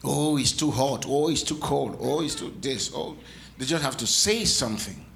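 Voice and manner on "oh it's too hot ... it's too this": whiny complaining. Retold or imitated. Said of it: "crying, complaining people".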